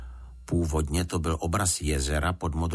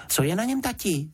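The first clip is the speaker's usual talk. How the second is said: put-on high, eager little girl's question; a daughter pestering her dad; curious girl; 13 semitones higher than usual. A narrator's reading. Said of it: "zeptala se Juditka".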